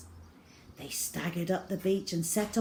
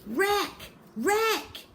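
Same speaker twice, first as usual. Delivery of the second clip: crying out; 12 semitones higher than usual. A narrator's reading. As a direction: shout it out to the whole beach. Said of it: "A cry went out from all round".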